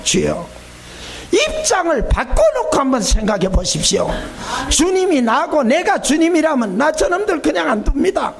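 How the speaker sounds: tearful pleading protest rising to a shout; mock cry out to the Lord in protest. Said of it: "더 울면서 큰 소리로 주님께 항변했대요".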